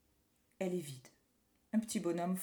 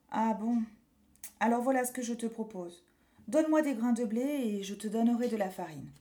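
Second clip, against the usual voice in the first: miller voice; 3 dB louder than usual. Acted. Miller proposes trade.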